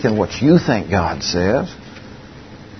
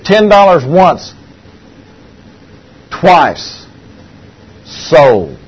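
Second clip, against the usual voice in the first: auctioneer call; 3 semitones higher, 4 dB louder, much slower than usual. Retold or imitated. Auctioneer closing the sale.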